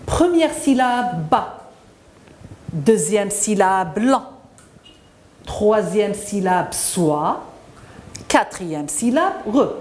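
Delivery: "ba", "lan", "soi", "re" each sounded separately; syllable by syllable. Shown as a demonstration. Teacher splits balançoire with the children, syllable by syllable. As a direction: count off the syllables deliberately, pausing between each. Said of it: "a combien de syllabes".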